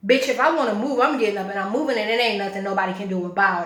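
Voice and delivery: loud, defiant outburst; heated, emphatic defiance; indignant retort. Real, not acted. Angry retort about the woman.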